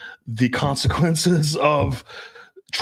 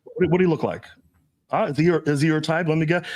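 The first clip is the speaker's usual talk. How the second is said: fake jealousy; 4 semitones higher than usual. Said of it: "if I fake jealousy".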